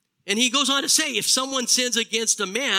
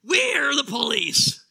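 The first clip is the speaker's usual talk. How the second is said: exasperated; 4 semitones higher, 4 dB louder, slower than usual. Retold or imitated. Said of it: "In utter exasperation".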